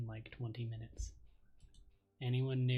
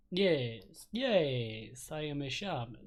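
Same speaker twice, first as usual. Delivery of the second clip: eager vampire voice; 6 dB louder, much slower than usual. Acted. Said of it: "hard to do a vampire voice for very long".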